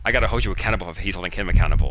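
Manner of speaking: retold mimicry, quick; imitated teasing echo, hurried along; mocking echo. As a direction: parrot someone's words back fast to mock them. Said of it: "he was mocking me".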